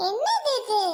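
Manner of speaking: indignant outburst; shocked confrontation. Acted. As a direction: demand to know what this is. Sister arrives, confronts the girl.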